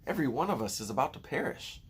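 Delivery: high, wailing prophet of doom; gloomy earthworm. A narrator's reading. Gloomy earthworm wails to the grasshopper. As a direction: moan it like the world is ending.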